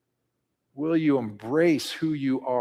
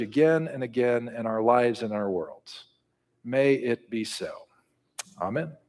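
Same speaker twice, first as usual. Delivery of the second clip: prayer; 4 dB quieter than usual. Acted. Pastor praying quietly over the congregation. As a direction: pray gently to close.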